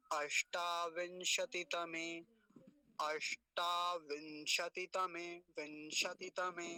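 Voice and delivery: "अष्टाविंशतितमे" slowly, keeping "ति" short; short इ demo. Shown as a demonstration. Teacher showing how to say it, short इ. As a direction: sound out "अष्टाविंशतितमे" slowly without stretching the इ. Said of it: "लंबा नहीं खींचेंगे इसको".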